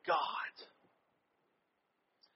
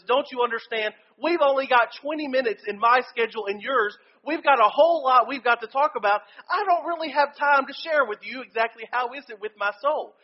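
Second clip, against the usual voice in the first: exasperated student; 3 semitones higher than usual. Retold or imitated. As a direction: vent like a stressed student out of time. Retold exasperated reply to mentor.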